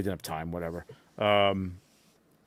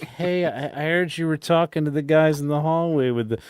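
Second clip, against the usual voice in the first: lightly voiced impression, pitched up; mild impression with a higher pitch; Iz Ramirez; 5 semitones higher than usual. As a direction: slip into a hint of another man's voice. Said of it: "try and do my Iz Ramirez".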